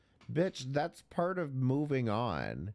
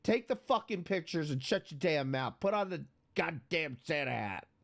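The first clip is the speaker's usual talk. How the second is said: blunt tough love; 2 semitones higher than usual. Pretend. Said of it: "Somebody in the fucking chat should be saying".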